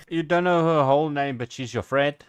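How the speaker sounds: loud, fast, disbelieving; can't believe what she heard; incredulous. Real, not acted. Host reacts in disbelief.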